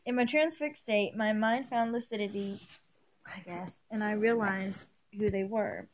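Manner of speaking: measured first-person story reading; story narration. A narrator's reading. Reader resuming an elf's vision of companions, story narration. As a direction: read the passage aloud evenly. Reads fan fiction aloud.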